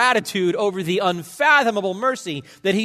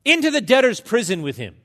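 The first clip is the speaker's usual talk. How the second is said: loud, raised royal command; stern royal sentence; 6 semitones higher, 7 dB louder, faster than usual. Acted. Preacher voicing the king's sentence, loud and stern. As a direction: pronounce the king's verdict loudly.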